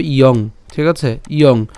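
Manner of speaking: "ইয়ং" sounded i-ong; pronunciation demo. Shown as a demonstration. Teacher shows how japhala sounds, "ইয়ং" as i-ong. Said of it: "তাহলে উচ্চারণটা কেমন হবে?".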